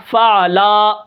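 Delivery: فعلا with the lam drawn out long; stretched lam. Shown as a demonstration. Teacher demonstrating a wrong reading, lam stretched. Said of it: "لام کو آپ نے بڑھا دیا".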